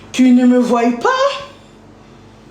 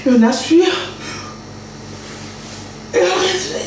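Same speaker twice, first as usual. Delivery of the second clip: breathing guide; 5 semitones higher, 5 dB quieter, faster than usual. Shown as a demonstration. Guiding a breathing exercise for her partner, calm. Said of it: "Quand j'inspire".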